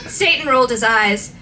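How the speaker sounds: ordinary delivery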